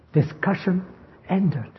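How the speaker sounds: quietly closing the matter, words set apart; final, authoritative. Acted. The Lord answering his critics, quiet finality. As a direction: end the argument with a pause between the words. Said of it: "That's how he speaks".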